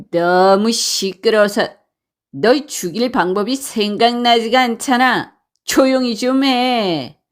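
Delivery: mildly angry bandit telling off a captive; understated irritated bark; acted bandit annoyance, little extra volume; scolding bandits. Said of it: "버럭 소리를 질렀어요".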